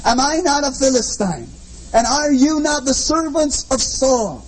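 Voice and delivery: lightly voiced giant's challenge, slow and drawn out; a hint of Goliath's booming dare. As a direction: boom it out like a taunting giant. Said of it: "in a booming voice".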